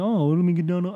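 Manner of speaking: high, badly faked English accent; mock English lady, half-done; bad British accent. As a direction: attempt a posh English lady, failing. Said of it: "I can't do the accent".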